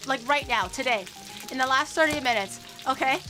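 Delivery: loud, insistent ranting at an audience; playful rage. Pretend. Streamer challenges chat over mod-abuse claim, playful rage. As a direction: demand witnesses loudly, pitch pushed up. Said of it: "I'm getting rage rated again".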